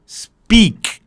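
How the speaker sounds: "speak" said loud with the k cut short; loud clipped speak. Shown as a demonstration. Teacher stressing the right "speak" for students. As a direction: bark out "speak", stop dead on the k. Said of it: "você corta o som de ki no final".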